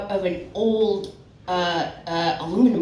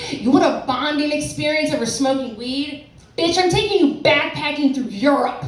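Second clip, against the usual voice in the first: indignant mother; 5 semitones higher than usual. Retold or imitated. Mother retold rebuffing her daughter.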